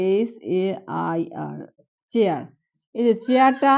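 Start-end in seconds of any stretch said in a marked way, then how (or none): 2.1-2.4 "চেয়ার" with a clear চ start. Shown as a demonstration. Teacher demonstrating chair for students. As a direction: say "চেয়ার" with an unchanged চ. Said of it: "উচ্চারণটা কি চ এর মতো আসছে".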